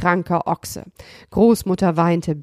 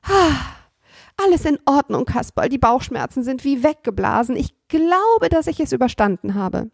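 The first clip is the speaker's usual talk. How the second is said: put-on higher boyish voice, relieved; beaming boy voice; 5 semitones higher than usual. Seppel tells Kasperl the pain is gone, beaming. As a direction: play cheerful relief. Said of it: "mit strahlender Miene".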